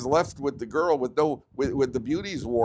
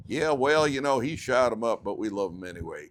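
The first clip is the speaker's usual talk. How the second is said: lightly hammed-up Southern newscaster; Southern accent; 4 dB louder than usual. Newscaster reporting a shooting, mock Southern accent. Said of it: "a newscaster with a Southern accent like".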